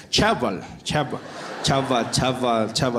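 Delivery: lightly voiced guard, low, mangling "Chabal"; confused security guard. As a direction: repeat "Chabal" haltingly, as if checking a name. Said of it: "He's like".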